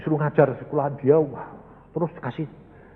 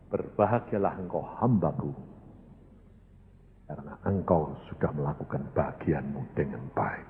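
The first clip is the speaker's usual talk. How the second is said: voice of God; 12 semitones lower, 11 dB quieter than usual. Retold or imitated. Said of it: "Tuhan berkata ini".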